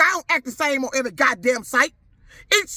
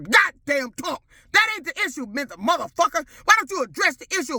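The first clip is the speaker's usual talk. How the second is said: angry shout; 3 semitones higher than usual. Real, not acted. Angry rant at commenters.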